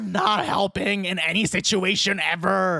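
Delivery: slow, fed-up scolding; exasperated scolding. Real, not acted. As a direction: spell out the frustration slowly. Scolding the character.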